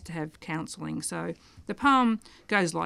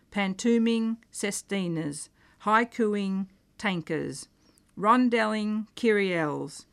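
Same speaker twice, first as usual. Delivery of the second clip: deliberate poetry recital, pause after each line; poem reading. Acted. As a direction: deliver each line like a punchline in a list. Reciting his wordplay poem.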